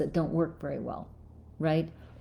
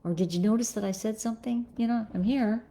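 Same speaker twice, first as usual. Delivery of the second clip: higher voice, asking to be noticed; higher appeal for attention; pleading for attention; 5 semitones higher, faster than usual. Retold or imitated. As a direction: raise the pitch and plead to be seen. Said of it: "When we say".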